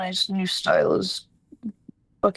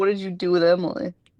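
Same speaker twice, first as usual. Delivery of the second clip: ordinary talk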